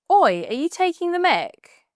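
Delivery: cheeky teasing protest; playful call-out. Acted. Friend mocks the shirt, playful high call-out. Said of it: "It's playful".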